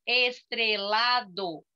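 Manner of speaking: "Estrelado" slowly divided into four beats; slow syllable count on "Estrelado". Shown as a demonstration. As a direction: say "Estrelado" as es-tre-la-do, each part distinct. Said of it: "quatro sílabas".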